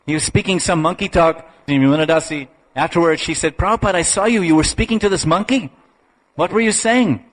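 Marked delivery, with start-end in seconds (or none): 3.6-7.2 higher-pitched imitation of a puzzled questioner; curious disciple. Disciple asks Prabhupada about speaking to the monkey, curious. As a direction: lightly act out an inquisitive follower.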